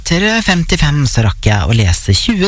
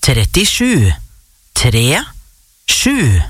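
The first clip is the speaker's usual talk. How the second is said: bingo caller; much slower than usual. Real, not acted. Calls out bingo numbers.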